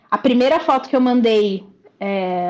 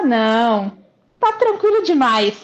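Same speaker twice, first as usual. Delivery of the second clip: mock disbelief. Client recalling her doubts about easy-looking workouts, mock disbelief. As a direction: voice the doubter, pitched up in mock dismissal.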